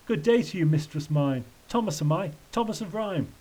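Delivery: mildly theatrical verse greeting; gallant tramp. Acted. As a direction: greet her with courtly flourish.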